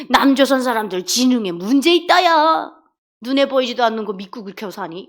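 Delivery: mild North Korean-style jeer; lightly hammed-up derision; mocking. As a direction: act out a scornful unbeliever ridiculing believers. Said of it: "조롱하던 사람이에요".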